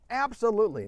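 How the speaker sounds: high, loud, eager "Absolutely"; eager yes. Retold or imitated. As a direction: leap in with a wholehearted yes. Colleague jumps up, forgives.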